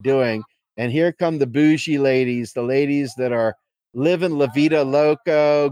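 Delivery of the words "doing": baffled onlooker. Retold or imitated. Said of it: "it's like".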